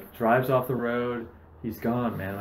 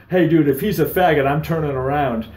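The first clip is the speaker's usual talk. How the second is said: mock bigot voice; 4 semitones higher, 9 dB louder than usual. Mocking an imagined bigot bystander.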